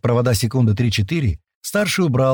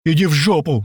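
higher, angry outburst; exploding in anger; 5 semitones higher than usual. Acted. Паштет blows up at Миха, angry. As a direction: snap back in a fury. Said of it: "взорвался Паштет".

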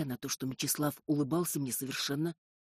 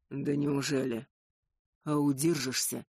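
taunting; 3 dB louder than usual. A narrator's reading. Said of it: "подначил меня вампир".

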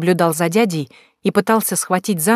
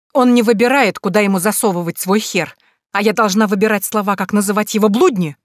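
angry retort; 4 semitones higher than usual. Acted. Sister rages at brother.

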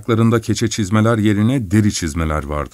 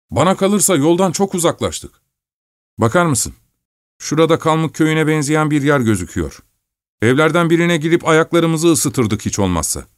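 higher, fussy miller's voice; grumbling miller; 7 semitones higher than usual. Acted. Miller scolding the driver about the lost way, grumbling. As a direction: nag him about the lost road.

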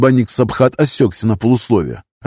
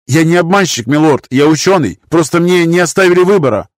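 muttered excuse; 7 semitones higher, 4 dB louder than usual. A narrator's reading. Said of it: "пробормотал Нарус".

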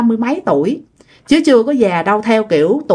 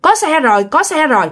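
higher-pitched, relieved call; glad calling out; 5 semitones higher than usual. Retold or imitated. Lost rider calls to the man that a truck is coming, gladly. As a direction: call ahead with happy news, mildly excited. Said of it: "bạn mới mừng lắm, bạn mới kêu".

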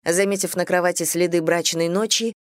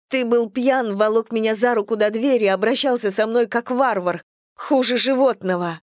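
raised, higher accusing voice; angry accusation; 4 semitones higher than usual. Acted. Sister angrily accuses her drunk brother, raised voice. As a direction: throw it in his face.

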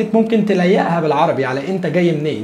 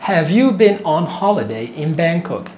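very slow, every word stretched; slow teaching demo; much slower than usual. Shown as a demonstration. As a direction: spell out the question for learners. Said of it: "تعال نسمع".

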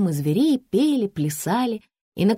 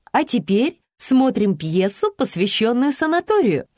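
proclaiming; 5 semitones higher than usual. A narrator's reading. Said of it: "провозгласила Лиза".

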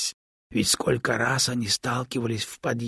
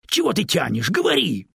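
loud, much higher urging; impatient; 7 semitones higher, 5 dB louder, faster than usual. A narrator's reading. Stone pressing the stalling snake, loud urgent demand. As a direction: push him to speak now.

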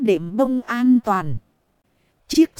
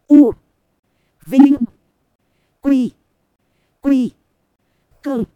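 crowd cheer; 3 semitones higher, 6 dB louder than usual. Acted.

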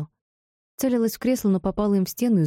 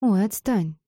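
irritated snort; 3 semitones higher, slower than usual. Acted. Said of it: "я раздражённо фыркнула".

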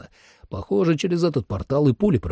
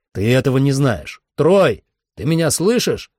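raised voice, climbing into a call; mild yell; 4 semitones higher, 3 dB louder than usual. Acted. Narrator calls for missing Troy, raised voice. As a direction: call out urgently, without a full shout. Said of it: "закричал я".

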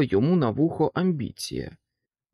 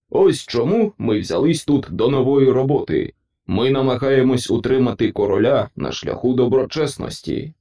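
loud, earnest chorus of principles; principles' chorus voice; 7 dB louder than usual. Acted. Principles answering the pig, loud and earnest. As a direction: declare it together, loud and earnest.

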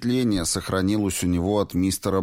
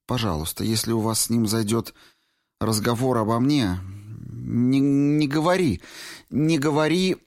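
higher, urgent plea not to tell; pleading young woman; 6 semitones higher than usual. A narrator's reading. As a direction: Valentina begging Clifford to keep silent, urgent and pleading. Valentina pleading.

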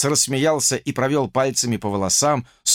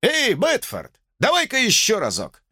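raised, high call to Betford; old man egging the fireman on; a bit louder; 9 semitones higher than usual. Acted. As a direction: call out, pitched well up. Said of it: "добавил уже громче".

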